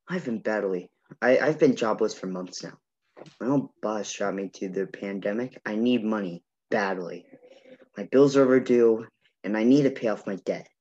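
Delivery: flat, even, eerie delivery; scary monotone voice. Acted. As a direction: read it dead flat and creepy. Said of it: "my scary monotone voice".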